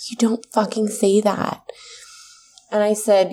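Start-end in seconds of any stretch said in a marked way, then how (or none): 0.1-1.6 fierce whisper; whispered anger. Real, not acted. Telling the listener in an angry whisper. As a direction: hiss it under the breath. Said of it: "angry aside, whispered".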